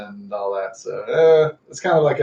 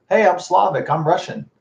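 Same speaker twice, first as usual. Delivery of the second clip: higher, imitated proud announcement; proud declaration; 6 semitones higher than usual. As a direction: introduce yourself with pride, pitched up. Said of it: "can't say it as proudly anymore".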